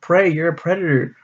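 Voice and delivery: put-on a light parody of a worried girlfriend, rushing at the end; mock Judy. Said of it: "She's like".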